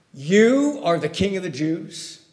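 slow, emphatic statement, stress on You, not a question; Greek sense as statement. Shown as a demonstration. Preacher shows the Greek as a slow emphatic statement. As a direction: state it flatly: You are the king. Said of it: "In the Greek, it says this".

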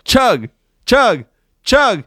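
high, loud chug chant; frat bro. Pretend. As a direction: hype them up like a party.

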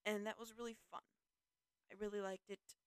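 understated, unconvinced-sounding fondness; unintentionally unenthusiastic. Real, not acted. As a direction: say you enjoyed it without sounding like it. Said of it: "makes it sound like it wasn't fun".

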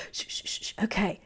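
breathy unvoiced shushing of a room; hissed shh for silence; hushing shh. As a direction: shush everyone before the segment. Friends hush as the news starts.

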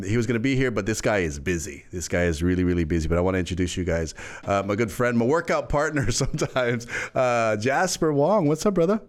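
smooth radio host delivery; host the show like a DJ. Real, not acted. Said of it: "You switched into your radio voice".

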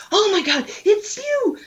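high, squealing fan voice; excited fan gushing. Retold or imitated. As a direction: gush like a starstruck fan. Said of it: "someone just ran up and said".

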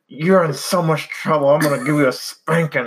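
high-pitched joking threat; mock mad voice. Dad making threats to the baby inside the tummy, mock mad. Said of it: "I'll, like, be really mad at the baby".

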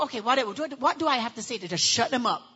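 bored whatever; dismissive appeasing. Retold or imitated. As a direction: placate to end it. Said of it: "appease you".

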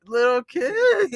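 loud, slow shocked exclamation. Real, not acted. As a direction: gasp it out, scandalized. Shocked at friend's remark.

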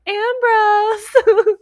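high, loud sing-song call for the cat; half-hearted calling. Retold or imitated. Blair calling for the cat, a half-hearted high call. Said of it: "But very, like, half-heartedly".

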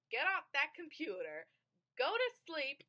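mock scolding yell, high and loud; retold whisper-yell. Mom ordering her kid off the computer, mock whisper-yell. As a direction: imitate a parent's urgent telling-off. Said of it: "in the loudest whisper yell".

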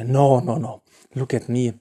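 quiet, over-sweet mock pleading; exaggerated sappy devotion. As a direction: ham up the innocent devoted lover. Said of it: "do the total opposite".

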